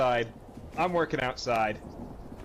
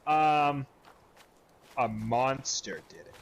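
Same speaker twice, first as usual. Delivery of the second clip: put-on slow, hesitant little-kid excuse; sheepish kid excuse; slower than usual. Stepson, caught out, offers a lame slow excuse. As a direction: drag it out like a guilty kid. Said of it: "And he goes".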